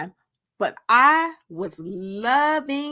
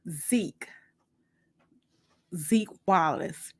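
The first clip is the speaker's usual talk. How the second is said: low intimate introduction; 3 semitones lower, slower than usual. Acted. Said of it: "looking deep into my eyes".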